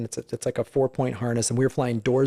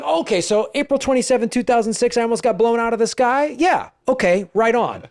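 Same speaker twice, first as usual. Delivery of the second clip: ironic calm; 7 semitones higher than usual. Retold or imitated. Ironic reaction to near death.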